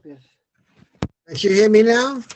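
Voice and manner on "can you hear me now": raised voice so the mic picks it up; speaking louder. Real, not acted. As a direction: say it louder and clearer. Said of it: "Speak louder".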